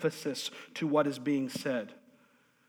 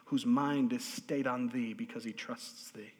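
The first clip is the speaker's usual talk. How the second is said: King James recitation; 3 semitones lower, 4 dB quieter than usual. Shown as a demonstration. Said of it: "I often quote in my head in the King James".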